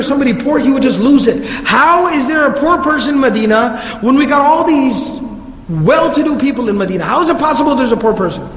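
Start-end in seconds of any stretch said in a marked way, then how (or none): 1.6-8.5 mock frustration. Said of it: "he would get really angry and upset".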